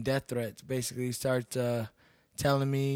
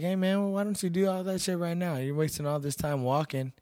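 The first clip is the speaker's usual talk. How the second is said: raised, taunting challenge; defiant retold challenge; 5 semitones higher, 4 dB louder than usual. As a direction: dare him to act now, louder. Retold challenge to threatening guy.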